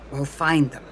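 lightly voiced American man; American accent. A narrator's reading. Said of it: "this one speaking in an American accent".

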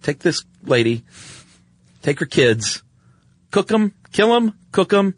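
a mock shrill queen barking orders, rising high; hammed-up evil queen ordering the cook; queen's order. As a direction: play the cruel queen commanding the cook. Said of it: "and she says".

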